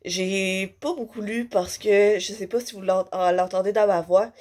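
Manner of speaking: stuffy voice from a head cold; blocked nose. Real, not acted. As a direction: talk through a blocked nose. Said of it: "j'ai le nez bouché".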